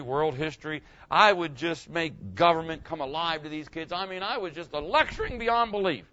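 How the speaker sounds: playful self-praise, building in pitch; mock boasting. Former teacher recalling his lectures to the congregation, boastful. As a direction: brag about yourself, tongue in cheek. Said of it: "Let me boast".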